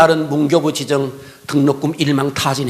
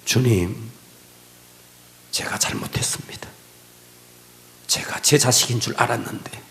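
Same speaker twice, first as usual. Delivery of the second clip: hushed repentant prayer; 3 semitones lower than usual. Retold or imitated. (낮게 속삭이듯 회개하는 기도)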